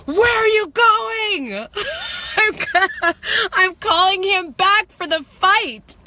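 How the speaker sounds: high, loud, slow taunting call; calling him back. Retold or imitated. Calling the fleeing drunk back to fight, loud taunting shout. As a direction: yell after him to come fight. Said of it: "out of my body going".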